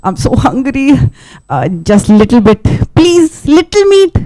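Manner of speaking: begging, rising to a high please; lightly acted hungry beggar; pleading Anansi. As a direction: wheedle for a little bite. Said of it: "he goes to Mister Lion and he says".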